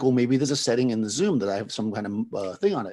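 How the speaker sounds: ordinary delivery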